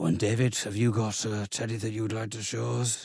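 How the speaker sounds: utterly bored, very soft, hushed monotone. Retelling what his teacher said to him, imitating Miss Patterson's bored voice. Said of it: "in a very bored voice".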